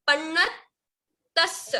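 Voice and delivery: पन्नतस very slowly, pausing on the half t; pronunciation demo. Shown as a demonstration. Teacher showing students how it's pronounced, slow careful demo. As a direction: stretch पन्नतस into pannat and a held tass. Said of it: "इसको ऐसे pronounce करते हैं".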